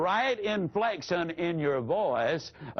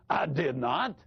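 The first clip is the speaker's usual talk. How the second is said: firm denial with weight on "not"; vehement denial; 2 semitones lower than usual. Shown as a demonstration. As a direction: deny it, landing firmly on "not". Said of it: "That's a vehement denial".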